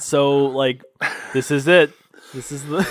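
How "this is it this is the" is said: stern. Retold or imitated. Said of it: "says it so stern".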